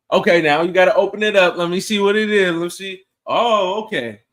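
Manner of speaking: loud, eager urging; excited. Retold or imitated. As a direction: hype her up to open it. Acting out the lady opening food.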